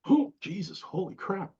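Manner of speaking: high, quiet mock puffing; winded exclamation. Young student climbing steep stairs, winded exclamation.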